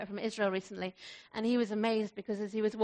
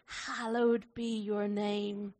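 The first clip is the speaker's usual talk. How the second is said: reverent slow; 3 semitones lower, 4 dB quieter, slower than usual. Shown as a demonstration. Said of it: "Oh, that's beautiful".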